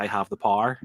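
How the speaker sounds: "power" squashed into one syllable, "par"; quoted catchphrase with "power" as "parr"; accented "power". Shown as a demonstration. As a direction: say "power" to rhyme with "car". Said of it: "I can't say pa-, power".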